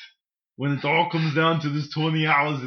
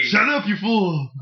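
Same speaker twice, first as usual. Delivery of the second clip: Arnold insult; 4 semitones higher, slower than usual. Acted.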